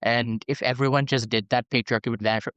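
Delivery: mock-earnest purist, lightly put on; sarcastic plea, dragging the middle slightly. Host parodying purist lesbian feminists, mildly sarcastic. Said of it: "I can't even get through the sarcasm".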